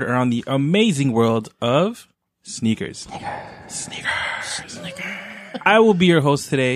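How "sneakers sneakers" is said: fading echo of the word; repeated softer and softer echo. Acted. Echo effect on show intro.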